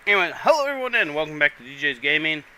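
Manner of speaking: fast intro with mouth full. Real, not acted. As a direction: rush the intro around a mouthful. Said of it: "it's still in my mouth".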